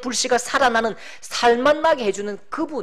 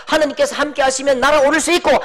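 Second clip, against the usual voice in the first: usual speaking voice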